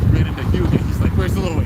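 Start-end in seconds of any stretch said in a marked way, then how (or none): 1.2-1.6 Drum's voice, higher and louder, calling "Where's Louie?"; excited yell. Retold or imitated. Voicing Drum asking Hugo where Louie is, higher and louder.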